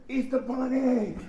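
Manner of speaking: lightly called out, drawn out slowly; drivers calling out. Retold or imitated. Drivers passing by tease the sweaty bunny, mild drawn-out call. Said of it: "beeping the horn".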